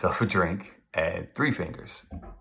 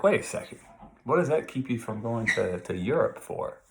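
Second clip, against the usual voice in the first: John's challenge; 5 semitones higher than usual. Retold or imitated. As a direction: jump up high and challenge him. Teacher acting John's challenge.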